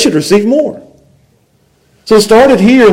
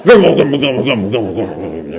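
mock grumble sinking low; muttering that drops lower and softer; imitated grumbling; 11 semitones lower, 7 dB quieter, faster than usual. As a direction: grumble away, fading to a mumble. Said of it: "that's what they do".

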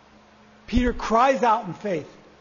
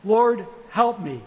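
slow, lower plea; cry of faith; 4 semitones lower, slower than usual. Acted. Peter sinking, crying to Jesus, slow and low. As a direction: lean low and slow on each word. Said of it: "he cries out in faith".

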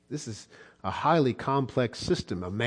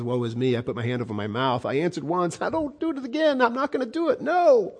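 high, meek voice of a cowed man; humbled Job; 5 semitones higher, faster than usual. Acted. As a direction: back down like a man who's beaten. Preacher voices Job's humbled reply.

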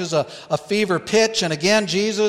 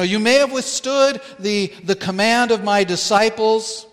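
higher and louder, commanding the demon; emphatic command; 3 semitones higher, 4 dB louder than usual. Acted. Preacher voicing Jesus rebuking the demon, loud command. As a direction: order the demon out with full authority. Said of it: "he is very emphatic".

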